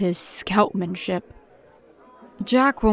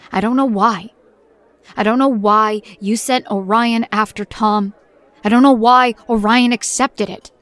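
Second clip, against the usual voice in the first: rising frustration; 2 semitones higher, 5 dB louder than usual. Acted. Confronting Control, building anger.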